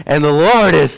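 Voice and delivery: put-on livelier reading to a baby; lightly animated retold Bible reading. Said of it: "I become more animated".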